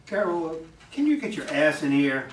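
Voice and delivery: calling out. Acted. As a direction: summon her sharply from the kitchen. Manager calls her from kitchen.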